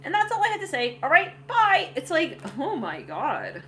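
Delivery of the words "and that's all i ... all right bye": high, loud quick sign-off; hasty goodbye. Retold or imitated. Ex wrapping up his speech, high and loud. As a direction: chirp it and bolt. Voicing the ex leaving abruptly.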